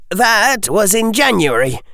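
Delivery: a hint of a sharp, businesslike boy; boy pressing for terms; young Harry. Harry answers.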